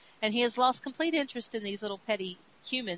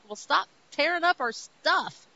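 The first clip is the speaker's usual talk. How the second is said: higher and louder, a hammed-up complaint; mock protest shout; 6 semitones higher, 5 dB louder than usual. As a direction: yell it like an annoyed townsperson. Earthlings yelling at the rampaging creature.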